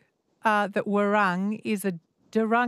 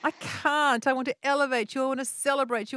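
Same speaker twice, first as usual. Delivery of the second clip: high, effusive celebration; rousing, over-the-top encouragement; gushing praise; 4 semitones higher than usual. Real, not acted. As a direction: lift the pitch and champion the caller. Host gushes praise at winning caller.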